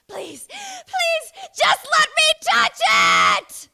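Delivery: high, loud desperate shout building up; Hanji's loud plea. Acted. Hanji begging to touch the transformed Eren, loud shout. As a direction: beg at full volume, rising into a scream. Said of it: "It's gonna be really loud".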